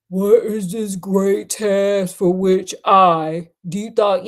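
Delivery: a hint of a deep soul singer, drawn out slowly. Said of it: "my best soul-singer impression".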